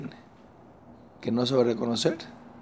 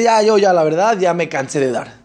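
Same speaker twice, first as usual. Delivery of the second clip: exasperated, starting loud and high; a touch of weary complaint; fed-up giver; 4 semitones higher, 5 dB louder than usual. Retold or imitated. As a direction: sigh it out like someone sick of giving. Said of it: "Porque dice".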